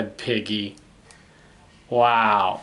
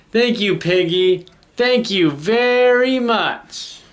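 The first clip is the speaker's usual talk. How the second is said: grateful elephant; 4 semitones higher than usual. Acted. Relieved elephant thanks Piggy.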